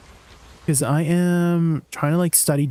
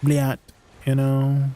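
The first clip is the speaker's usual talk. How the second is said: Russian accent; 3 semitones lower, slower than usual. Shown as a demonstration. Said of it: "I have to speak in a Russian accent".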